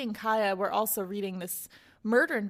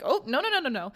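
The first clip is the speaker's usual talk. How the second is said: panicked refusal; 3 semitones higher, 3 dB louder, faster than usual. Acted. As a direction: jump up and blurt out the no's in mock alarm. Kaya panics at Chase.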